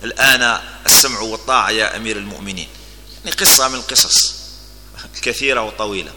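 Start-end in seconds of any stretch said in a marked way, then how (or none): 0.0-2.7 lower, reverent acceptance; a touch of humble deference; respectful and humble. Acted. The man now yields to the Commander of the Faithful, reverently. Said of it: "في احترام، يعني، وخشوع".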